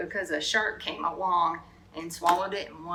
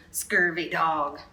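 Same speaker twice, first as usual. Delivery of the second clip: slow and loud pirate insult; mild hammed-up pirate slur; pirate talk; 3 semitones lower, 5 dB louder, slower than usual. Shown as a demonstration. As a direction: drag it out like a sea dog. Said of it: "say real pirate stuff like".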